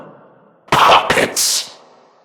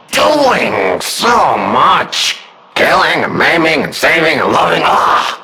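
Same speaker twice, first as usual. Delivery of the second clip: mock disappointment; 4 semitones higher than usual. Villain mock lament.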